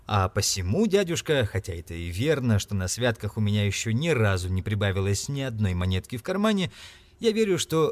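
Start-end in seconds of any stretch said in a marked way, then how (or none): none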